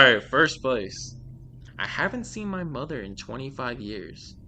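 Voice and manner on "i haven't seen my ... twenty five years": measured read-aloud of a creepy tale; storyteller's deliberate delivery; scary story narration. A narrator's reading. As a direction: read it out like a short horror story. Reads scary stories aloud.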